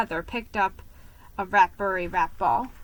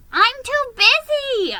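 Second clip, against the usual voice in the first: much higher, dismissive mouse voice; busy brush-off; 7 dB louder than usual. Acted. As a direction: wave him off, too busy.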